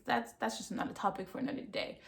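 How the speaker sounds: quick, whispered throwaway aside; a muttered side comment, brushing the topic off; hushed aside. Real, not acted. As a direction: drop it fast under your breath.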